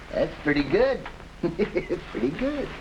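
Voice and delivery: slow, high words through a chuckle; laughing it out. Acted. Flat Top relishing his henchman's dark joke, slow and laughing. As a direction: savour the joke while still laughing.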